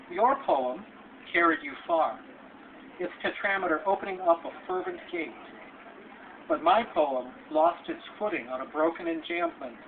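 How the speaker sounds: measured poem reading, phrase by phrase with pauses; lilting delivery with lifted peaks and falling line ends; poetry recitation. Acted. Poet reads to an audience about writing poems, measured recitation.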